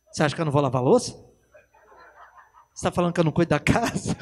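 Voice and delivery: very fast, indignant comeback; mock wife snapping back, hurt; offended wife.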